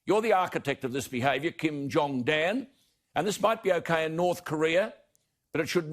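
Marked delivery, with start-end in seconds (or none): 1.5-2.7 slow, drawn-out mocking nickname; sneering nickname. Real, not acted. Commentator mocking the premier with a slow sneering nickname. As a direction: stretch the jibe out with contempt.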